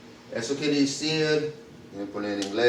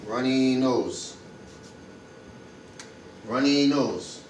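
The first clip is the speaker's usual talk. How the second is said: slow model; 4 dB quieter, slower than usual. Shown as a demonstration. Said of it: "we're gonna translate runny nose".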